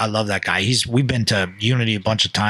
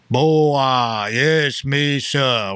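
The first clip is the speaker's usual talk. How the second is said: Murillo coaching; much slower than usual. Acted. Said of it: "'cause he was coaching".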